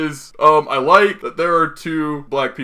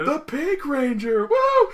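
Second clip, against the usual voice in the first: hyped announcement; 10 semitones higher, 4 dB quieter, slower than usual. Retold or imitated. Retelling cast announcing counterparts.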